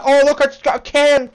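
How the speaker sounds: high-pitched mock kid's excitement; excited young cousin. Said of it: "they're just young minds".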